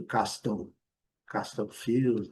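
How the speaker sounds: castle as CAS-tol with a hard T; wrong, T pronounced. Shown as a demonstration. Teacher shows what to avoid, castle with sounded T. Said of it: "não tem nada de".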